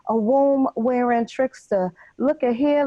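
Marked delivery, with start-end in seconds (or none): 2.2-2.8 raised, rising taunt; taunting call. Acted. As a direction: call him out, chin up. Taunting, repeated phrase contrast.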